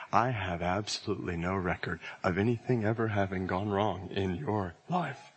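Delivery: solemn divine declaration. Acted. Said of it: "he would declare".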